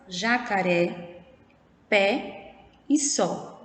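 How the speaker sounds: "jacaré, pé e sol" with open, stressed final vowels; open vowel sound. Shown as a demonstration. Teacher reading example words to pupils, open stressed vowels. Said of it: "ela tem um som aberto".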